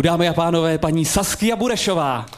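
grand stage announcement of the guest; announcer intro. Acted. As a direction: present her like a gala host, a touch nervous. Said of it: "Proto se tak klepu". (slavnostní uvedení hosta, trochu rozechvěle)

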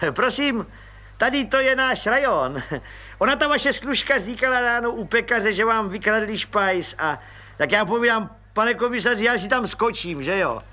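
high, eager voice of a fawning little clerk; fawning little policeman. Acted. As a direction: squeak up importantly like a nosy petty cop.

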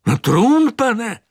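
sternly. A narrator's reading. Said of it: "odvětil biskup přísně".

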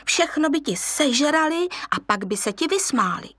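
lightly voiced mum lecturing her cub; lioness mother warning. Mother lioness warning her son about hyenas, fussy. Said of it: "Připomínala mu".

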